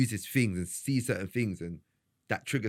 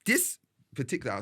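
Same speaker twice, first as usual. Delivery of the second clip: real stumbling restarts, higher pitched; stuttering restart; 5 semitones higher than usual. Real, not acted. Podcaster losing his thread mid-explanation, stuttering restart. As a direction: keep restarting on "this", getting stuck. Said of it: "Sorry, I'm stuttering there".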